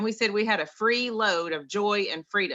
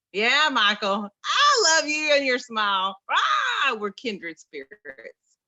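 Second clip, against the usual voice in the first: emotional outburst; 3 semitones higher, 5 dB louder, slower than usual. Real, not acted. Greeting a friend emotionally.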